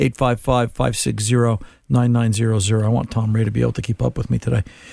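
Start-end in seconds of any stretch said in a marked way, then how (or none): 0.0-2.8 slow, deliberate delivery, each digit spaced apart. The host repeats the phone number, slower. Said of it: "Let me do that one more time slower".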